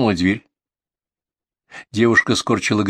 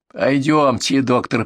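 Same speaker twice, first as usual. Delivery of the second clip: sneering parrot of a polite invitation; mocking mimicry; 3 semitones higher, slower than usual. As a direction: mimic the words back mockingly. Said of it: "передразнила соседка".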